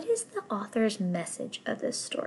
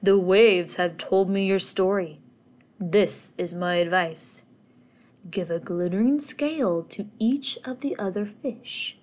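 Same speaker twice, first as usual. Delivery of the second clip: lightly voiced old octopus; wise octopus voice. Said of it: "said the octopus with a deep voice".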